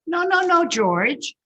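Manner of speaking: high, loud no-no-no; scolding mother. Acted. Mother correcting George, high and loud. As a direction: stop him with a high scold. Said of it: "said his mother".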